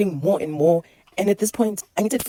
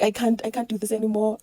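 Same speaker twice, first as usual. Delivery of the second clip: retold crying; 5 semitones higher than usual. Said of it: "I'm crying manje".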